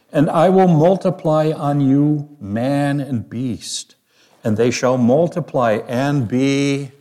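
scripture reading. Acted. Reads scripture aloud.

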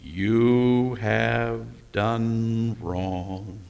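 very slow, drawn-out solemn voice; stretched-out inner judge; voice of conscience. Pretend. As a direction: let each word hang like a verdict. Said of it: "that voice never says".

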